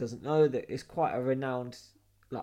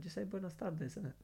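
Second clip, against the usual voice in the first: hushed; 4 semitones higher, 11 dB quieter than usual. Retold or imitated. Whispering advice at the bar.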